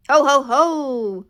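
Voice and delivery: fierce little pumpkin laughing loud and slow; booming pumpkin laugh. Acted. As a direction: boom out a proud villain laugh.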